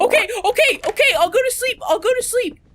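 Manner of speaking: high, loud squeaky surrender; high childish reluctant agreement; high whiny giving in. Pretend. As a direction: whine it like a scolded kid. Answering game character, giving in.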